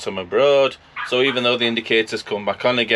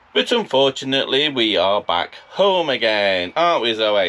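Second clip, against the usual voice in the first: plain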